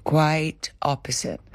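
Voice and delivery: slow, breathy whisper; whispered emphasis. Real, not acted. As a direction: drop it to a slow, pointed whisper. Repeating her denial for emphasis.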